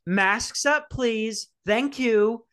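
mock a cheery-stern flight attendant; chirpy flight attendant. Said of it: "And she goes".

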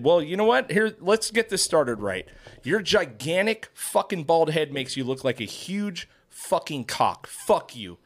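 slow, deliberate retold insult; pissed off. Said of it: "I'm, like, pissed".

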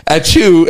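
quick imitated achoo; mock sneeze. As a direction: act out a sudden sneeze. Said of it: "and he sneezes".

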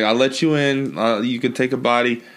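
God as a lightly voiced New Yorker; a hint of New York deal-maker; New York accent. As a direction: lay down terms in a mild New York accent. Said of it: "he'd probably be a New Yorker".

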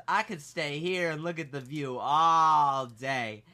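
slow, lightly voiced admirer; flirty Southern woman. Waitress admiring her customers, mock flirty drawl. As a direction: imitate her savoring it, stretched out. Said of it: "every Southern middle-aged woman acts".

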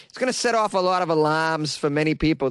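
mimicked Massachusetts accent; Boston accent. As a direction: imitate a Bostonian saying alarms as "alahms". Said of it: "emphasize her Boston accent".

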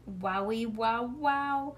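ordinary delivery

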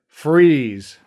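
loud sharp command; police order. Acted. Detective ordering Neve to freeze, loud command. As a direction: stop them cold.

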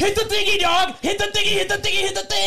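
excited shout. Acted. Cueing the ad jingle.

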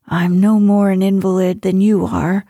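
a touch of irritation, lightly voiced; mildly testy. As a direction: grumble it like an impatient invalid. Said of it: "returned Mister Parker testily".

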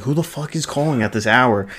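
half-hearted impression of a dad yelling; imitating a scream. Retelling dad yelling at a ringing phone, mild mock yell. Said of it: "he just starts screaming at the top of his lungs".

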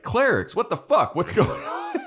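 high, loud outraged yelling; mock angry yell. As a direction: imitate a commander yelling at underlings. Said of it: "turns around and yells".

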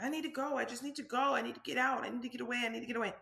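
frantic inner plea to get away; mock screaming to myself. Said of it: "I'm screaming to myself, you know, kinda loud".

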